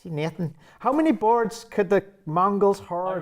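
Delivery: tongue twister in Northern Irish; Northern Irish accent. Pretend. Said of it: "Northern Irish".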